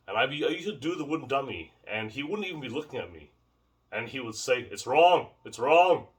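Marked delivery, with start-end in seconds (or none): 4.7-6.1 imitating a thick Jamaican accent, louder; lightly imitated Jamaican teacher's correction; mock Jamaican accent, leaning on each correction. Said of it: "He had a thick Jamaican accent".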